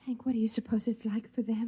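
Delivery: whispered, secretive question; wife secretly asks husband about outsiders, whispered; hushed question. Acted.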